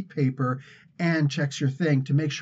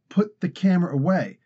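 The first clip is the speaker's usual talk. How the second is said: mildly raised, higher imitation of a yelling guy; mock yell; 4 semitones higher than usual. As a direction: imitate a staffer's yelled order, half-strength. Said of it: "this one guy's yelling at my wife".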